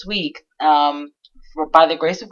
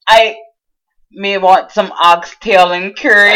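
mock Jamaican accent; 4 dB louder than usual. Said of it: "That's my Jamaican accent".

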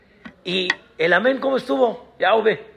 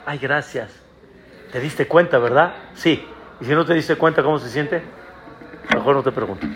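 wife's voice; 9 semitones lower, faster than usual. Retold or imitated. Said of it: "Cuando a tu esposa le dices".

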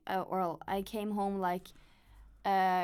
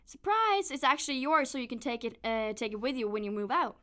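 cheerful surprise; 2 semitones higher than usual. Retold or imitated. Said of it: "and then she said".

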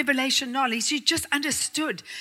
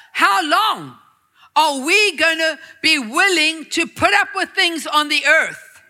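God challenging us. Acted. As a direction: press the question hard. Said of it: "God is saying to us".

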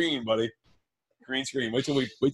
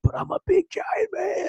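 mock giant voice; slower than usual. Boasting whine.

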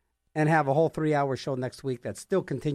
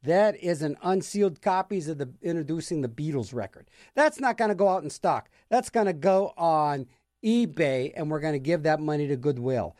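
narc employee. Retold or imitated.

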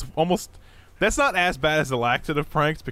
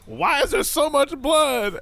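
slow, higher mock boyfriend; 13 semitones higher, 4 dB louder, slower than usual. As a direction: act out the clueless boyfriend. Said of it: "the boyfriend comes in and is like".

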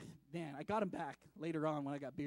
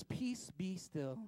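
slow, measured and calm; calm command; 3 dB quieter, much slower than usual. Acted. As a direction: still the storm with quiet authority. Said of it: "and he says".

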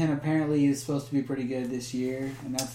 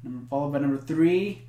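top ten countdown; 3 dB louder than usual. Acted. Countdown reveal continues.

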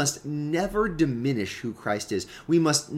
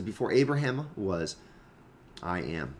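solemn declaration; 5 semitones lower, 5 dB quieter than usual. Acted. Preacher repeating Jesus' claim to be existing, solemn and quiet. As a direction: drop low and soft on "I am". Quoted climax after building argument.

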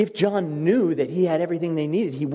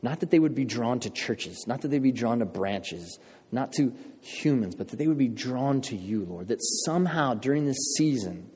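soft, hushed prayer to the Lord; quiet prayer. Real, not acted. Pastor praying for the congregation, softly and reverently. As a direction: pray gently and sincerely, almost inward. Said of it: "I had this prayer in my heart".

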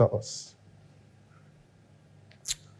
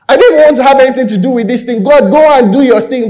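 protesting Moses; 3 semitones higher, 5 dB louder than usual. Acted.

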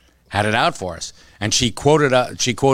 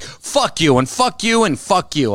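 higher, repetitive mock tirade; imitating a rival swearing, higher; mock cursing; 6 semitones higher than usual. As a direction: spit it out like a petty bully. Retold insult in quarrel.

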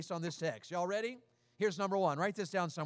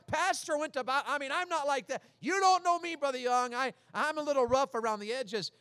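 higher, slightly pleading voice of a new believer; doubtful churchgoer; 5 semitones higher, 3 dB louder than usual. Retold or imitated. Newcomer telling the pastor he is not ready, mildly pleading. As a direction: voice the unsure newcomer's objection. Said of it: "You say".

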